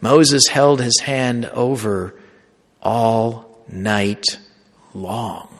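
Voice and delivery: drawn-out scripture quote with all night long slowed down; slow emphatic reading. Shown as a demonstration. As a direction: read it slowly, leaning on all night long. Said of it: "If you actually read the scripture".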